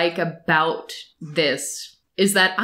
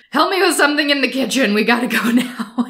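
flustered; 4 semitones higher, faster than usual. Retold or imitated. Flinches away, flustered excuse.

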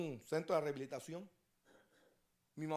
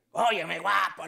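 flirty woman; 10 dB louder, slower than usual. Acted. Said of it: "le dijo".

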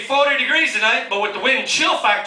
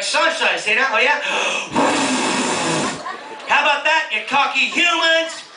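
taunting God; 3 semitones higher than usual. Retold or imitated. God voiced taunting Florida.

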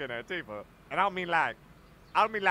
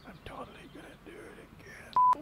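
whispered aside; 7 dB quieter than usual. Real, not acted. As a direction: say it under your breath. Unvoiced aside.

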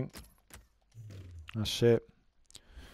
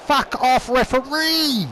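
much higher, louder furious shout; angry yell; 9 semitones higher, 3 dB louder than usual. Real, not acted. Gamer raging at the referee, furious shout. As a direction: blast the referee.

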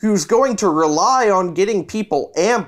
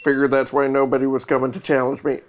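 depressed vampire voice; 6 semitones lower, 3 dB quieter than usual. Acted. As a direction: sound like a sad, tired vampire. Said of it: "like, a vampire voice?".

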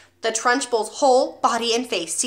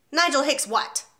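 1 bellowed; 5 semitones higher than usual. Acted. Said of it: "the Trunchbull bellowed".

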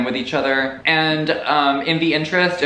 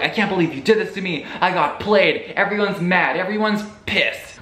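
higher-pitched, imitated indignation; mock angry outburst; 4 semitones higher than usual. He was pissed at being played, mock angry outburst. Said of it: "He's angry, he's pissed".

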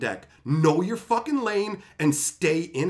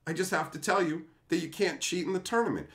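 put-on reassuring kid; 5 dB quieter, faster than usual. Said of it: "I just gotta be like".

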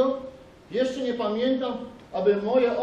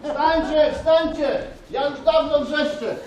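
calling out; 5 semitones higher than usual. Acted. Shepherd yelling at sleeping friends to get up. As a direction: shout them out of sleep.

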